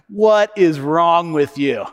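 slow, drawn-out pretend reproach; mock scolding. Father to his injured son, mock scolding. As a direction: play the exasperated, unsympathetic parent slowly.

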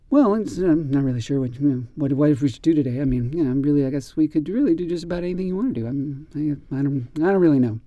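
hesitant, unclear mumbling; fast, unsure mumble. Shown as a demonstration. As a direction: trip over the words and mumble. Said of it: "if somebody talks like this".

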